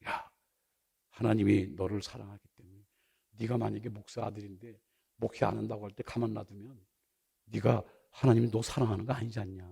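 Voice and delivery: low, soft inner voice; inner voice of God. Retold or imitated. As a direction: speak it quietly like a voice in the heart. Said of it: "마음에 이렇게 음성이 들려주는데".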